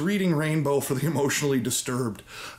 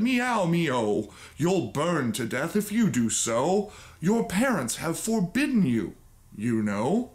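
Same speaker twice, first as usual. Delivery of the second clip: cat voice; 2 semitones higher than usual. Acted. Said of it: "they said".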